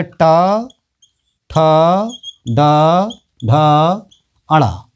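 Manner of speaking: ट, ठ, ड, ढ said singly with long gaps; retroflex-sound demonstration. Shown as a demonstration. Teacher showing letters spoken from the roof of the mouth, letter-by-letter demonstration. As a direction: recite the retroflex consonants one by one. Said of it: "मूर्धा से कौन से अक्षर बोले जाते हैं".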